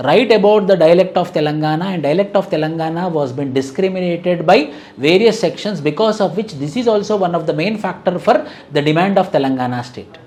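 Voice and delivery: slow, spaced dictation for notes. Acted. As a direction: dictate each phrase slowly so students can write. Dictates a sample exam question. (నెమ్మదిగా notes చెప్పడం)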